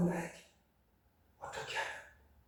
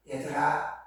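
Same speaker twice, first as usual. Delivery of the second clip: tender call; 4 semitones lower, 5 dB quieter, slower than usual. Acted. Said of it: "이렇게 부르신다".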